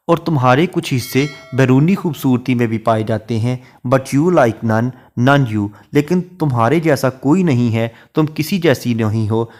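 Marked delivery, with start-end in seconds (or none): 3.9-5.7 slow, measured reading of a verse line; poetry recitation. Shown as a demonstration. Teacher reciting a Shakespeare sonnet line to students, slow and measured. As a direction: read each word of the sonnet out slowly.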